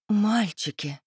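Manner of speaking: drawn-out, lightly sultry call; mildly sultry appeal; languid coaxing. A narrator's reading. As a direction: draw it out languidly, as if to charm. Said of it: "протянула по возможности томно".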